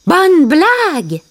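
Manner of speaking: slow, high mock shout; scoffing cry. A narrator's reading. Timon scoffs at Simba's idea, slow high cry. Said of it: "cria Timon".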